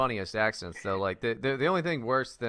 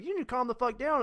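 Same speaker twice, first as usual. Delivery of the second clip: mock Chinese talking; 11 semitones higher than usual. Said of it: "If a Chinese person just talks at you".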